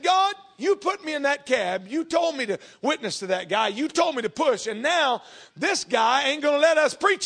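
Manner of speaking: mildly heated, slowed protest to God; mad complaint. Retold or imitated. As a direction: complain to God, a touch of anger. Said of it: "I got mad".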